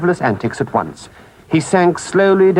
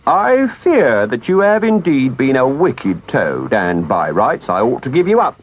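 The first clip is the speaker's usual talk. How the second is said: grave. Acted. Engine driver judging the wicked Toad, gravely. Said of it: "The engine driver looked grave and said".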